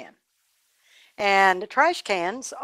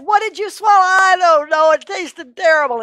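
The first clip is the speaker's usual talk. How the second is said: frantic exchange; 9 semitones higher, 9 dB louder than usual. A narrator's reading. Frantic mother and wailing boy.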